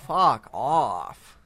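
slow, dragged-out disgusted dismissal; exasperated groan. Real, not acted. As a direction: stretch it out in disbelief. Groaning at sequel news.

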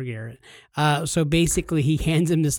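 usual speaking voice

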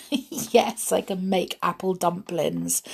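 mildly amused reply; laughing. Acted. Snow White answers tongue-tied Doc, lightly laughing.

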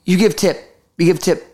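lightly voiced halting foreign driver; imitated Uber driver. Driver questioning his passenger, lightly imitated limited English. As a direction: mimic a driver with very little English. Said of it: "he could barely speak English".

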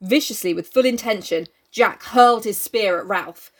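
measured dramatic reading; story narration. A narrator's reading. Reader telling co-host of Jack's attack, story narration. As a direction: read it out with weight on the action. Reads the novel aloud.

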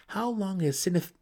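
high, bitter, slowing at the end; angry pressing. Acted. Brother resentfully asks his sister about the favourite. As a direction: drag out the grievance. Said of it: "he pressed".

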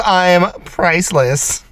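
slow, mechanical robot. Pretend. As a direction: talk like a stiff machine. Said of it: "You gotta be robotic".

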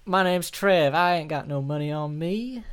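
lightly voiced victim pleading innocence; hammed-up improv bloke; Trev. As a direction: protest to a robber in mock worry. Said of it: "be a man called Trev".

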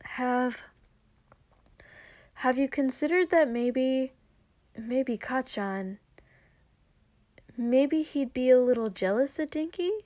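hesitant, stumbling, careful; very carefully. Acted. Izuku gently suggesting Kacchan might be jealous, hesitant. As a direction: tiptoe through it, restarting. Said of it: "Izuku said very carefully".

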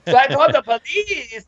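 put-on high campy Hispanic accent, laughing through the end; very high, exaggerated Hispanic accent with laughs breaking in; gay Hispanic accent. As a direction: retell the witness in a hammed-up Hispanic voice. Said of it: "I found my gay Hispanic accent".

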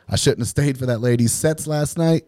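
high, loud comic lament; mock regret. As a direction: wail an excuse in playful self-blame. Mock regret while retelling nausea.

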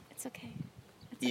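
very soft, hushed reassurance; barely voiced, tender movie quote; Pepper. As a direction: imitate someone gently comforting the dying. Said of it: "and Pepper's like".

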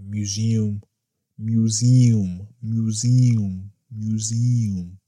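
"Museum" sounded out carefully as "mew-ZEE-um"; practising a hard word. Shown as a demonstration. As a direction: practise "Museum", giving all three syllables. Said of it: "That's a hard word for me".

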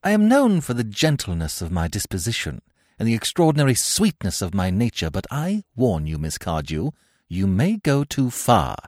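loud, high, furious complaint slowing to a threat; indignant warning. Acted. Gwendolen rising in indignation at Cecily. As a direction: scold her then warn her.

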